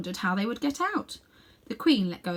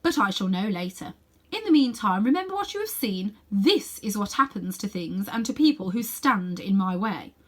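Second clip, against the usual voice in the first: menacing queen; 3 dB louder than usual. Acted. Queen threatens the boy.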